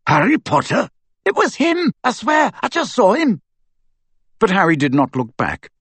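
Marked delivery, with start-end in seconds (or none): 0.1-3.4 much higher, eager gossip; excited student. A narrator's reading. A student telling friends about Harry, excited. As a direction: insist breathlessly you saw him.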